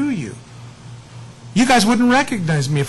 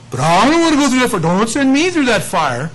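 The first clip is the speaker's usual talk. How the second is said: higher, louder, fast mock whine; mock pleading; 4 semitones higher, 3 dB louder than usual. Reluctant believer begging not to face the fire, mock whine. Congregant pleading to avoid hardship.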